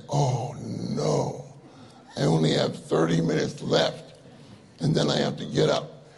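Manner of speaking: downcast, understated "oh no" at the alarm clock; dismayed groan. Acted. Preacher mimics waking half an hour early, mildly dismayed. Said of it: "and we say".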